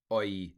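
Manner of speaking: "oi" glided as one vowel; true diphthong. Shown as a demonstration. Teacher showing a true diphthong, oi pronunciation. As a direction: say "oi" as a gliding oy. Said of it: "a true diphthong".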